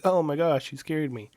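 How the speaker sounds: mock jolt of surprise on "Oh my gosh"; startled. Startled by a sudden arrival.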